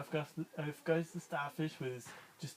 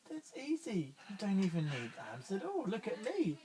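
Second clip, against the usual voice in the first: boastful snail; 3 semitones higher than usual. Acted. Snail brags.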